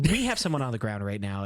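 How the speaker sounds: low, understated emergency report; sudden seriousness. Retold or imitated. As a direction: imitate a caller dropping the cheer. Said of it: "Zero to someone's dead".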